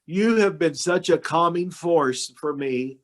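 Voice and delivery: slow, heartfelt, holding back emotion; deeply moved, measured words; choked up. Real, not acted. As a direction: pass on tearful thanks slowly. Moved retelling of tearful thanks.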